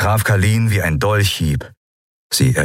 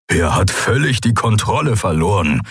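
growling. Acted. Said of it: "grollte Skoru".

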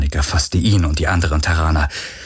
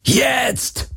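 viel höher herausgeschrien; gebrüllt. Acted. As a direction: Kommando mit allerletzter Kraft. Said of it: "brüllte Galen". (Galen brüllt Kirai das Signal zur Flucht zu, hoch)

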